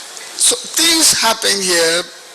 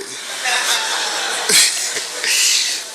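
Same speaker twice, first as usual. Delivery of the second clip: soft unvoiced chuckle; breathy laugh; 5 semitones higher, 4 dB quieter than usual. Real, not acted. Telling the listener about Doe, a quiet airy laugh. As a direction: laugh under the breath at the memory.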